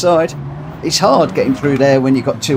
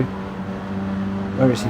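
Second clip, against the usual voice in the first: whispered to himself; 3 semitones lower, 7 dB quieter, much slower than usual. Real, not acted. Searching for teammate.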